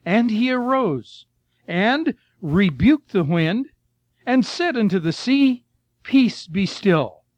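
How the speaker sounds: slow, solemn verse reading; scripture reading. Acted. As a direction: let each phrase land slowly and calmly. Reads scripture verse aloud.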